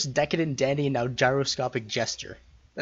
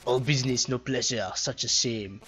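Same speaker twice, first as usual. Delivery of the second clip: haughty knight voice. Acted. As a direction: play an offended dandy. Propeller Knight challenges.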